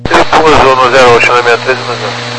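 crackly cockpit radio transmission; crackly military radio. Real, not acted. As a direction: talk through a crackling radio link. Pilot reading back over radio.

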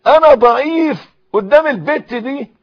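high, loud cry to God; loud pleading prayer. Shown as a demonstration. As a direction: plead out loud as the worshipper would. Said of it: "قل لربنا". (دعاء بصوت عالٍ متضرع)

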